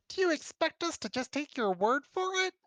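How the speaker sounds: high, disbelieving official voice; incredulous aide. Acted. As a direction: scoff at the claim in disbelief. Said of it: "the aide asks incredulously".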